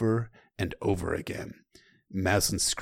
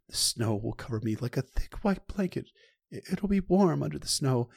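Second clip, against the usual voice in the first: lightly voiced Sam; 7 semitones higher, 3 dB louder than usual. Sam voiced dying in snow.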